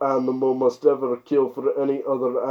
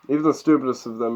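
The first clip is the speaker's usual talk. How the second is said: rushed; much faster than usual. Real, not acted. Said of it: "rushed reread".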